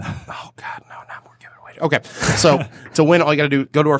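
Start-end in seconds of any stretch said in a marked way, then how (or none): 0.0-1.7 hushed whisper, half joking. Real, not acted. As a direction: drop to a breathy whisper. Mock dread at giveaway joke.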